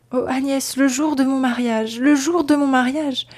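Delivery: rising despair, repeating her wedding day as if to ward off a blow; a bride begging her friend to stop, anguish swelling; anguished plea. Acted.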